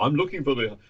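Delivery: lightly put-on old-movie American accent; a hint of a 1920s gangster American accent; mock American accent, not fully committed. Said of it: "sorry about the accent".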